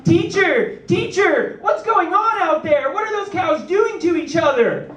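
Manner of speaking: put-on high, eager children's clamor; mock kid voice calling teacher; excited kids. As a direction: pester the teacher like a curious kid. Kids demanding answers on bus.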